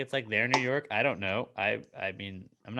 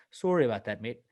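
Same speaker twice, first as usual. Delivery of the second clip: lightly put-on Canadian apology; mock-Canadian politeness; Canadian accent. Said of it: "in a Canadian accent".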